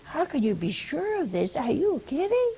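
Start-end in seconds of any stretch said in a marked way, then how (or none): 1.6-2.5 incredulous. Acted. Preacher mocking Zechariah's doubt.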